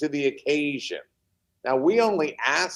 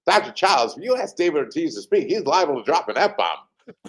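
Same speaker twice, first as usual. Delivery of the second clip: a light, quick imitation of a Boston accent, a bit higher; 4 semitones higher than usual. Retelling a colleague's warning to the doctor in a light Boston accent. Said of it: "in, in her Boston accent".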